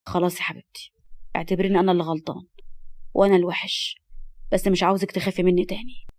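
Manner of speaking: tender. Acted. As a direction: make up with her tenderly. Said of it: "وقال بحنان". (بحنان وهدوء)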